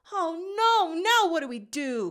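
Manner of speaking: frantic plea; panicked cry. A narrator's reading. Gadget watches the portal shut, high panicked cry. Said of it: "cries Gadget".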